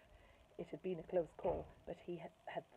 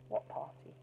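mock innocent; 2 semitones lower than usual. Bertie faking memory loss.

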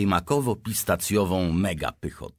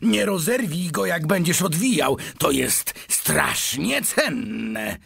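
high, urgent cry of caution; excited warning; 12 semitones higher, 4 dB louder than usual. A narrator's reading. Shopkeeper warns the boy unwrapping a precious find, excited warning. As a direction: warn him in a high, raised voice.

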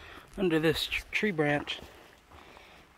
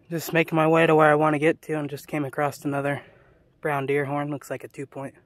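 talking with a mouth full; words round a cheek of seeds; 4 dB louder than usual. Real, not acted. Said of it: "I got a cheek full of sunflower seeds".

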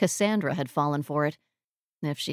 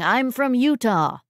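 higher, drawn-out mock call; mock shout; 5 semitones higher, 4 dB louder than usual. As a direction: imitate calling it out slowly, half-shouted. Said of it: "waving and shouting".

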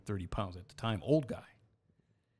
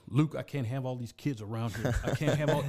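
mock usher scolding Luke, pitched up; Usher's retold yell; 3 semitones higher than usual. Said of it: "And he'd yell".

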